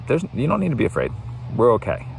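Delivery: high, quick soothing parent voice; calm a frightened kid, brightly; parent comforting. Retold or imitated. Parent soothing a child scared by a thunderstorm, high and quick.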